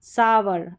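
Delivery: सावर with an open "aa" into "ver"; "ow-er" sound. Shown as a demonstration. Teacher demonstrates "o-u-r" spelling, "ow-er" sound. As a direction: say सावर in two beats, "saa-ver". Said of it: "आऊ, अ करके है".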